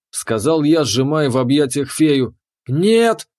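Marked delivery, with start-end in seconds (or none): 2.7-3.3 high cry of refusal; shouted. Acted. The fairy cries out as he gives the order. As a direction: cry out no, higher. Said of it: "выкрикнула Веста".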